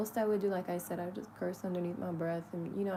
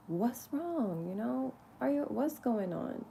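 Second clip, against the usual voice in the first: lovingly; 6 semitones higher, slower than usual. Retold or imitated. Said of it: "really, like, lovingly".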